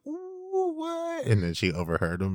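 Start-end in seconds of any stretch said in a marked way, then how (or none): 0.1-1.2 much higher, squeaky mock gasp of surprise; high, teasing ooh of friends catching gossip; mock shocked ooh. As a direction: squeal it like a scandalised crowd. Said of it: "everyone was like".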